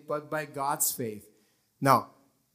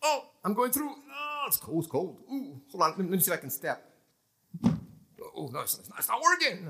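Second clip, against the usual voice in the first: higher, wobbling mock panic, sinking; 3 semitones higher than usual. Peter voiced sinking on the water, panicking. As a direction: flail as the water gives way.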